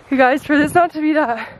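breathless from climbing uphill; out of breath. Real, not acted. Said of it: "I'm a little out of breath".

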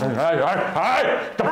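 high yelp at cold water; in ice cold water. Acted. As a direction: yelp as icy water hits. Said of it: "está fría el agua".

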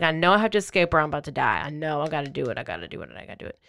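quick retold self-urging, sinking to a murmur; rushed repeats that fade away; urgent self-talk. Captive psyching herself up to escape, rapid and fading.

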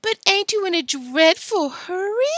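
high, loud mock-girlish call; piercing falsetto taunt; shouted taunt. A narrator's reading. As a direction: shout it teasingly after them. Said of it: "shouted Billy".

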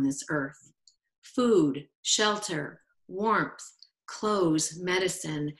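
measured recital, pausing between phrases; poem reading. Acted. Poet shares a poem about Native peoples, measured reading. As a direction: read your poem aloud, letting each line settle. Reads own poem aloud.

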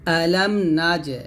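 slow recited আলাম না যে with a bounced জ; qalqala demo. Shown as a demonstration. Teacher demonstrates qalqala to students, slow chant. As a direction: echo the জ in আলাম না যে with a light rebound. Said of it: "এই যে এখানে জিমটা কলকল হবে".

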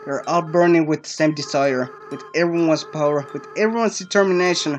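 rising resolve. Acted. Asriel resolving to free the monsters, building up. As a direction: swell with determination.

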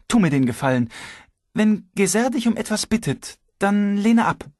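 high, sharp outburst; exploding. A narrator's reading. Wife flaring up at Anton's teasing. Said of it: "Svetlana explodierte sofort".

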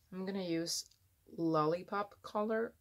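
affected announcing of the product, slightly lifted; slightly put-on presenter manner; odd affected delivery. Real, not acted. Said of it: "I don't know why I'm speaking like this".

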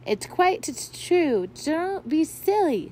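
put-on cold girl insists through chattering teeth. A narrator's reading. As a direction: stammer from the cold. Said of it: "her teeth were now chattering".

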